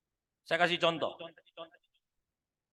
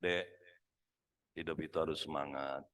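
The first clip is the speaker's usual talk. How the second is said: much lower and softer, limp; wrong voice for motivation; 13 dB quieter than usual. Shown as a demonstration. Manager gives a staff pep talk in a limp, low, soft voice. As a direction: say the pep talk with no energy at all. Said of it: "hati-hati milih suara".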